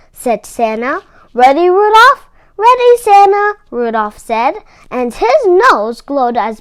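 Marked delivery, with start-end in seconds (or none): 1.3-2.3 eager call. A narrator's reading. Santa before takeoff. 2.6-3.6 eager reply. A narrator's reading. Rudolph before takeoff.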